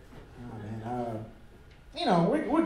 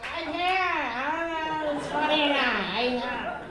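1 uptight white people; 5 semitones higher, slower than usual. Pretend. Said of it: "Some of y'all are like".

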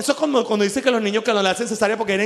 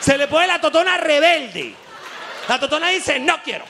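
laughing punchline; 5 semitones higher than usual. Acted. Comic punchline voicing the body.

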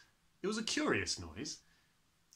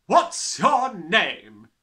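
very loud, high, slow demand; barked question; 8 semitones higher, 14 dB louder, much slower than usual. A narrator's reading. Headmistress questioning a small boy, barked. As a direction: bark it out, stretching each word. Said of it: "she barked".

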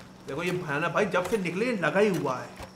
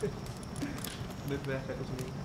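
whispered no; 4 semitones lower, 10 dB quieter, much slower than usual. Pretend. दोस्त की बात ठुकराना.

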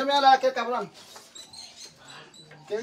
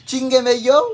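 louder, higher mock complaint; mock whine; 4 semitones higher, 8 dB louder, slower than usual. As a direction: whine it like the son. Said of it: "Que dice".

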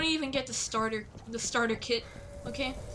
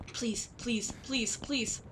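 breathy whisper, begging under the breath; whispered pleading; 4 dB quieter, slower than usual. Real, not acted. Pleading in tense moment.

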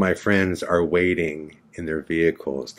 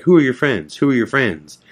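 higher, insistent retold questioning; demanding interrogator; 4 semitones higher than usual. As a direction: imitate a guard pressing for an answer. Acting out guards' interrogation.

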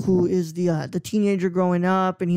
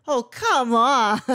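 Elliot's reaction; 5 semitones higher, 4 dB louder, much slower than usual. Retold or imitated. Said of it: "and he goes".

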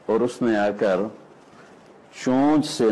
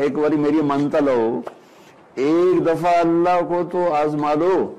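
raised, stretched-out pleading exhortation; urgent appeal; 4 semitones higher than usual. Acted. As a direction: plead it out, higher and drawn out. Voices God's appeal to listeners.

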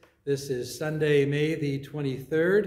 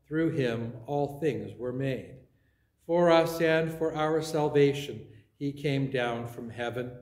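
steady, solemn liturgical recitation; creed recitation. Acted. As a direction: recite the creed with measured weight. Leads the Nicene Creed.

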